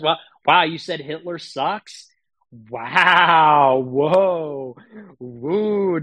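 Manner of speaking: sarcastic amazement. Pretend.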